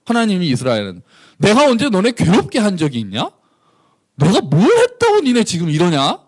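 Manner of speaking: what did I ever do to you, frustrated; exasperated God. Acted. God scolding his people Israel, hurt and indignant. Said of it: "하나님이 이스라엘 백성한테 얘기하는 거".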